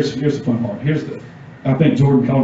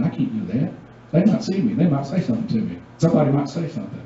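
much softer, hushed, nervous imitation; mock timid excuses; 6 dB quieter, faster than usual. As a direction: lightly play a scared believer making excuses. Mocking a timid churchgoer's excuses.

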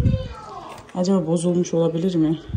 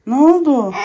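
plain; 7 semitones higher, 3 dB louder than usual. Real, not acted. Mother asks the child again.

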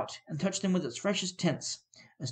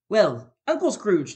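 group toast; 2 semitones higher, 5 dB louder, slower than usual. A narrator's reading. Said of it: "they cried".

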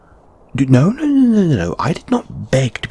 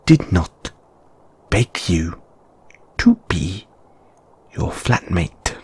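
curt, lower telling-off with sharp bursts; snappy; 4 semitones lower than usual. Acted. Telling the unwanted flatmate off, snappy. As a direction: snap it at them, no softness. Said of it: "that was snappy".

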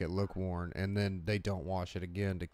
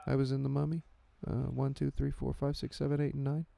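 higher, hesitant, meek impression; Brendan Fraser; 5 semitones higher than usual. Star listing Mummy films, high and hesitant. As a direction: list credits haltingly into the mic. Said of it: "he, like, talks like this into the mic".

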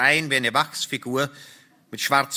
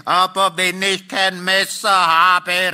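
higher, louder, exasperated call; calling back; 6 semitones higher, 6 dB louder, slower than usual. A narrator's reading. Husband calling back to his wife, raised exasperated shout. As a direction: call it back across a distance. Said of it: "rief ich zurück".

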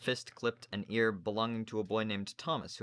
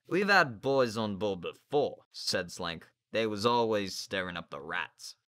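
gruff sailor; 5 dB louder, slower than usual. Acted. Narrator voices Slank.

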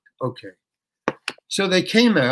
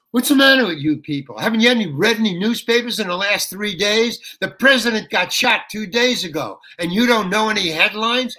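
higher, louder indignant ranting; angry rant at the audience; 5 semitones higher, 3 dB louder than usual. Retold or imitated. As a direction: scold the crowd for being clueless. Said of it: "I start ranting at them".

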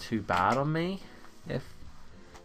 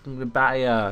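mock threat; 5 dB louder than usual. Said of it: "It's like".

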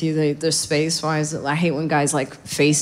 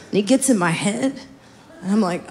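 ordinary talk

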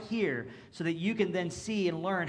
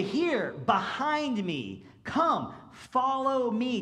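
urgent call; 6 semitones higher, much slower than usual. Acted. Jesus's call voiced with emphasis.

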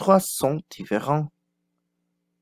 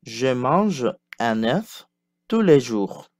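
slow model sentence. Shown as a demonstration. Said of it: "Passons au son E".

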